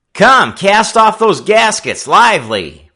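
high, loud barked command; ordering. A narrator's reading. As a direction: snap out the order to the crew. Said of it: "Frisco Kid ordered".

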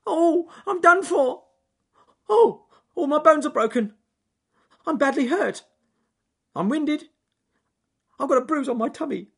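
high, loud wailing little creature; whimpering complaint. Acted. Creature who fell into the tree, wailing about injuries. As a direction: moan over every bump as if dying.

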